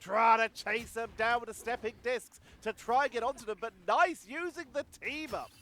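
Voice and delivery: excited caster, voice lifting; live esports play-by-play. Real, not acted. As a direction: call the action with rising urgency.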